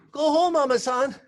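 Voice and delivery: firmer urging. Retold or imitated. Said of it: "And he say".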